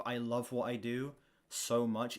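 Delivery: normal talking voice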